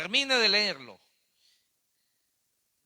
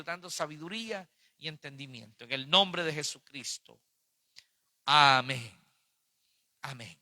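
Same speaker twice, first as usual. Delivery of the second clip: measured prayer, settling lower toward the amen; closing prayer; 3 semitones lower than usual. Real, not acted. Preacher praying for those seeking forgiveness, solemn closing prayer.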